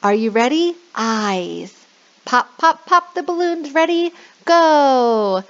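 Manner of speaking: high, bouncy call to start; high, excited go call for children; bright kid-teacher cheer. Shown as a demonstration. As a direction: pump the kids up. Demo to kids, high.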